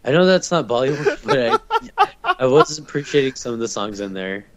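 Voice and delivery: laughing through the repeat. Shown as a demonstration. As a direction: say it while cracking up. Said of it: "repeated while laughing".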